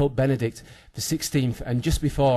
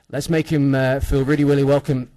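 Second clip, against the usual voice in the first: loud and high, building to the name; rousing crowd welcome, rising to a shout; announcer call; 4 semitones higher, 7 dB louder than usual. Acted. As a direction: bring him on like a ring announcer. MC announcing guest to applause.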